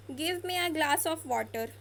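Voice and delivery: slow, ordering tone; order-like demo. Shown as a demonstration. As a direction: say it slowly like an order. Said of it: "order जैसा लग रहा है".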